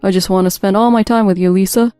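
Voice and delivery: eager, lovey-dovey husband on the phone; lightly acted besotted sweet talk; overly affectionate. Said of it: "Hearing Mike's overly affectionate tone".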